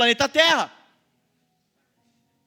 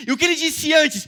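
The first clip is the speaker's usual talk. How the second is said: preaching shout; 4 semitones higher, 4 dB louder than usual. Real, not acted.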